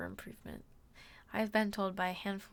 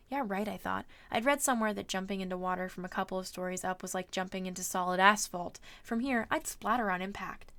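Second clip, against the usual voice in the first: story narration; 4 dB louder than usual. A narrator's reading. Streamer reading a novel to viewers, measured narration. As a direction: read the adventure aloud with steady pacing.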